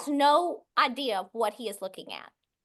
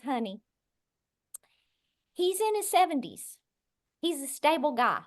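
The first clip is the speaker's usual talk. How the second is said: hushed comforting tone; soothing husband. Retold or imitated. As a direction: talk her down gently, like a husband comforting his wife. Husband calms crying wife.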